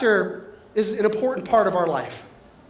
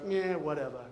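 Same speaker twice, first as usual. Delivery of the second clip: low, soft, dismissive shrug; indifferent cat; 6 semitones lower, 7 dB quieter than usual. Acted. Speaker voices cats unlike eager dogs, low bored indifference. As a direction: toss it off like an unimpressed cat. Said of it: "Cats are like".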